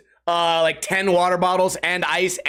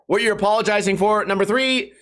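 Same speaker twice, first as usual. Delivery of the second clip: ordinary talk, nothing marked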